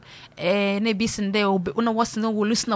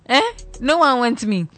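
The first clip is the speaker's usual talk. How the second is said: loud, raised mock wail; mock desperate plea; 4 semitones higher, 6 dB louder than usual. Single woman begging for marriage, loud mock wail. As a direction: beg the crowd loudly.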